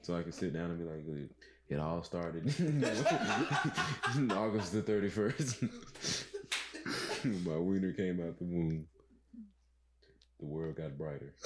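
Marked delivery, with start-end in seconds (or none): 1.1-11.3 slow, laughing mock-epic narration; mock storytelling. Friend mock-narrating his own legend, laughing slowly. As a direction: tell it like a grand origin story through laughs.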